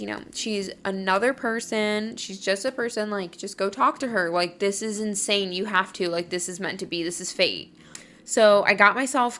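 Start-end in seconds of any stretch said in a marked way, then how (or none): 0.0-7.7 calming reassurance. Retold or imitated. Ty calming her down over the phone, calming reassurance. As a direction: talk a panicking friend down. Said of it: "He calmed me down".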